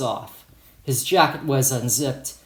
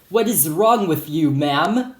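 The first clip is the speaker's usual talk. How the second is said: lightly put-on Hispanic accent, pitched up; Hispanic accent scolding; 3 semitones higher, 3 dB louder than usual. Security guard to teacher, scolding in light Hispanic accent. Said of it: "scolded in this thick Hispanic accent".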